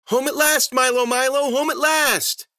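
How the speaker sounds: high, loud singsong cry; manic, high-pitched homecoming cheer; gleeful cave woman. Acted. Susie gleefully celebrates arriving home.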